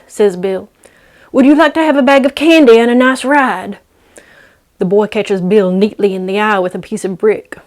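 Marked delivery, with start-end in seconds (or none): 1.3-3.8 coaxing voice. Acted. Bill luring the kid.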